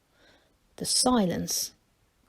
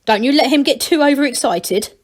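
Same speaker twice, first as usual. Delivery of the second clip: commanding; 3 semitones higher, 4 dB louder than usual. Acted. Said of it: "she commanded".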